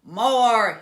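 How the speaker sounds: very loud, very slow monster pig bellow; giant pig shout. A narrator's reading. Giant pig demanding food, slow roaring bellow. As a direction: bellow your hunger like a giant beast. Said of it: "he shouted".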